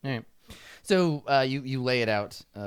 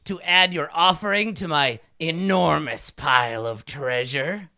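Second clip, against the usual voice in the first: grandiose kobold king; 3 semitones higher, 3 dB louder than usual. Acted. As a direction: boom it out like a tiny tyrant. GM voices Kakarol.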